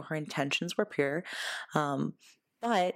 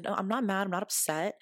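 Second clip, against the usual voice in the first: lightly lifted, reassuring tone; easy, higher-pitched reassurance; 5 semitones higher than usual. Retold or imitated. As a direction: soothe a worried friend. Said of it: "I was very reassuring".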